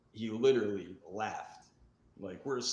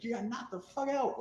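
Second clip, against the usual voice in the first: high, louder mocking taunt; gloating at the loser, higher and louder; taunting trash talk; 14 semitones higher, 4 dB louder than usual. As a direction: rub it in, pitched way up. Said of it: "I'll be like".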